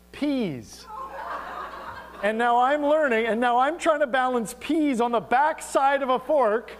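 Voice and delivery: laughing through the story. Real, not acted. Laughing as he tells the congregation about his in-laws. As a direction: chuckle while telling it. Laughing at own table blunder.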